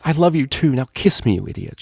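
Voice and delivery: high, rushed love burst; blurted out. Acted. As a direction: blurt it out, breathless. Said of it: "she blurted out".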